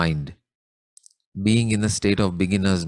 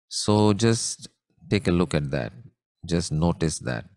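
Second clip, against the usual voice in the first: calmly guiding a contemplation, pausing between phrases; guided meditation; 2 semitones lower than usual. Real, not acted. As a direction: ease listeners inward with unhurried instructions and long pauses. Leads a closed-eye meditation.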